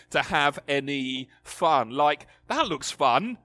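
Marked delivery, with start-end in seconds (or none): 2.5-3.4 mock cranky old man snapping; grumpy God. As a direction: imitate a killjoy yelling stop. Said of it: "grumpy man in the sky".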